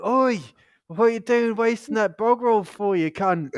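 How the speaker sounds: loud, high retold yell at a flatmate; angry shout. Telling off flatmate for wasting bog roll, loud angry yell.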